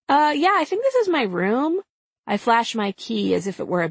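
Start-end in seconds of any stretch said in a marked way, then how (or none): 0.1-1.8 nervous. Acted. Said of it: "nervous reply to intruders".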